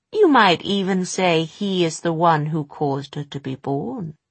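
sly, knowing crone; gloating witch voice. Acted. Mrs Dark gloats.

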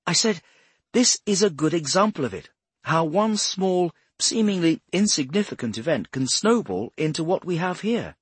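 high, loud, emphatic explainer; insistent Bradshaw. Acted.

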